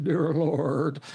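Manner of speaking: mock his father's quavering pulpit prayer; warbling prayer voice. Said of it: "he used to pray with a warbling voice".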